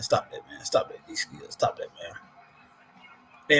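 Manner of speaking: hushed, half-whispered mock telling-off; whispered playful stop that; mock scolding. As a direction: shush the chatter teasingly, last one drawn out very slow. Playful scolding of a chat comment.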